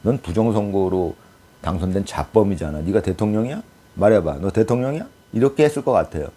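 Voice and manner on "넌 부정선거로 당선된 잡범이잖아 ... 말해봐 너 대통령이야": mock contained anger, barely raised; politely stern questioning, acted out; gentle anger. Imagined US president challenging an illegitimate winner, gently angry. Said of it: "젠틀하게 화를 냈겠죠".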